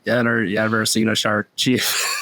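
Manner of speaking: put-on slow gravelly old sea captain voice; Quint. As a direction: growl it like a grizzled shark hunter. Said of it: "he has this gravelly voice that he does".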